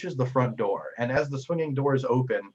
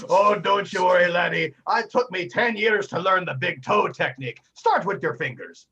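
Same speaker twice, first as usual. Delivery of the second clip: jolly bartender; 6 semitones higher, 6 dB louder than usual. Acted. Bartender inviting the player up, hearty and loud. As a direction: boom a welcome across the bar.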